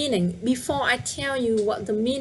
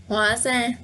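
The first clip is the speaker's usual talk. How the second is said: hóa ra with hóa a little stronger; slight stress on hóa. Shown as a demonstration. Teacher showing a light stress on hóa. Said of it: "emphasize a little bit on the hóa".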